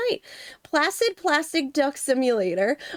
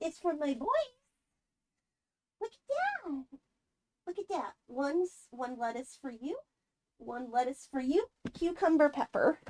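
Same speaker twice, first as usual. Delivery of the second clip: hushed, gentle words to her animals; soft murmur to pets; 2 semitones higher, 10 dB quieter than usual. Real, not acted. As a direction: keep it hushed so the pets aren't startled. Quietly feeding her pets.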